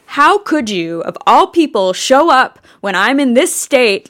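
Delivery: loud, high, furious accusation; enraged. Retold or imitated. Goddess of the underworld rages at her visiting sister, furious. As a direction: hurl it at the sister who showed up. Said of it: "Like, enraged".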